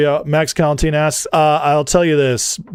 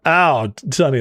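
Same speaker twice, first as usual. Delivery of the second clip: ordinary talk, nothing marked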